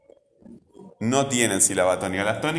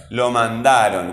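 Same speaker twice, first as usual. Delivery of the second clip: "mandaron" slowed, with a loud DA; stress on DA; 4 dB louder, slower than usual. Shown as a demonstration. Teacher helping pupils hear the tonic syllable, stressing "da" in "mandaron". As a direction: lean hard on the "da" in "mandaron". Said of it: "Hay que escuchar el sonido".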